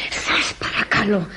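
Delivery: slow, whispered, near tears; tearful plea. Acted. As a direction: plead in a choked whisper. Maid begging drunk guest to get up.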